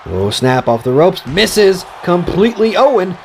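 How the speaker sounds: lively play-by-play announcing; wrestling commentator. Acted. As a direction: call the match like a ringside commentator. Play-by-play of game match.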